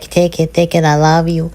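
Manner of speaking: high, cute keychain character voice; small high-voiced mascot offering love; Pip Pip. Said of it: "He's like".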